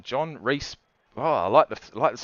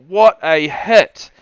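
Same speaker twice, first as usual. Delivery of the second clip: impressed; 8 dB louder, much slower than usual. Real, not acted. Reacting to big hit.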